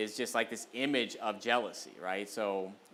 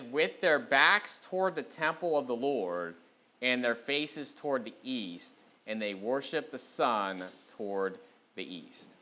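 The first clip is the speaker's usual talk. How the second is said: slow, deliberate Bible reading; scripture reading; slower than usual. Real, not acted. Preacher reads Ezekiel to the congregation, slow scripture reading. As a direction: read the verse out slowly, with spaced phrases.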